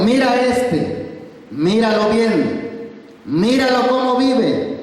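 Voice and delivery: slow, solemn voice of the Lord; voice of God. Acted. The preacher voices God showing the church a beggar, slow and solemn. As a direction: speak as God pointing out a beggar, slowly. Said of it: "¿Qué te está diciendo?".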